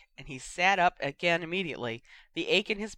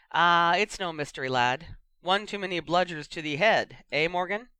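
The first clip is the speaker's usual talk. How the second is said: louder, blunt co-commentator; gruff pundit; 2 semitones higher, 5 dB louder than usual. Acted. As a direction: tease your fellow pundit.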